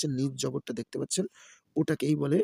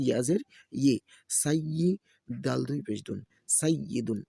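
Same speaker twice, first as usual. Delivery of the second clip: rhythmic letter-by-letter chanting; Quran-primer teacher's recitation; spelling drill recitation. Shown as a demonstration. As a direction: spell each syllable, then blend them. Spells out Arabic syllables for learners.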